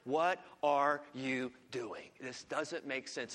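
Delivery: lightly voiced bewildered prophet; Habakkuk asking God, slow and hushed; frustrated plea. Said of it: "He's like".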